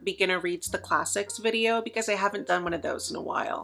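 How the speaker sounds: winded, gasping between phrases; breathless, struggling for air; out of breath. Real, not acted. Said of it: "trying to catch my breath".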